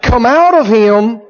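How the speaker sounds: slow, careful mock command; deliberately practicing an exorcism line; rehearsing the formula. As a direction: recite it piece by piece. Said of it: "Let's go over it again".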